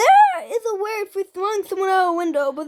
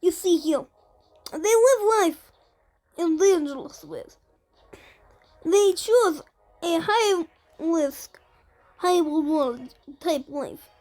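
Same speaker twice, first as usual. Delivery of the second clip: put-on Russian accent. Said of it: "stop doing the Russian accent".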